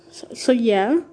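echoey room sound; talking in an echoing empty room; big hall echo. Real, not acted. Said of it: "sorry about the echoey".

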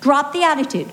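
wife brushing him off, voice up and quick. Retold or imitated. Wife snapping back at husband, high and fast. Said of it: "And I'm like".

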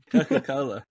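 "Coca-Cola" with no lip closure, falling tune; lips not touching. Shown as a demonstration. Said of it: "say Coca-Cola without touching your lips".

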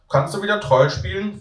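put-on high little boy's plea; a kid begging for the game; small boy asking. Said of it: "fragt mich ein kleiner Junge".

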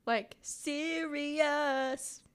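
slow, drawn-out "serious" as in the film; Legally Blonde quote. Pretend. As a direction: stretch out "serious" like Elle Woods. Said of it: "Less of a Marilyn, more of a Jackie".

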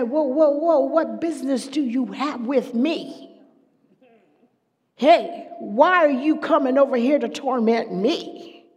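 a hint of the tormented man protesting; possessed man. Possessed man shouting at Jesus, alarmed. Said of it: "He ran to Jesus and said".

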